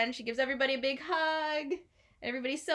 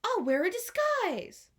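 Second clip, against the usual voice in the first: eager Robin Hood; 10 semitones higher than usual. A narrator's reading. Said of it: "Robin Hood said".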